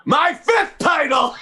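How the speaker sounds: high, slow laughing shout; gloating laugh. Acted. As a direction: crow with laughter. Gloating about winning titles.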